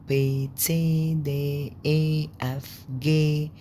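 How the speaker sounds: teacher saying the German letters slowly; slow letter names. Shown as a demonstration. Teacher slowly spelling out German letters for Egyptian learners. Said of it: "بصوا كله آ".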